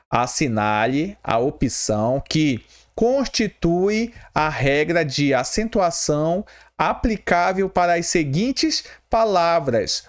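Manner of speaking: slow, measured read-aloud; deliberate dictation-like reading; reading out exam question. Acted. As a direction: read the question out slowly, word by word.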